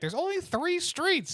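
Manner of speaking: very high, put-upon griping complaint. Imagining a friend on a trolley tour: imitating Tay complaining. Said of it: "Tay will complain the entire time".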